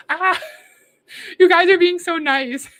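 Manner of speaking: laughing happily through the words; bubbling over with laughter at the kindness; laughing with delight. Real, not acted. Thanked by viewers, laughing.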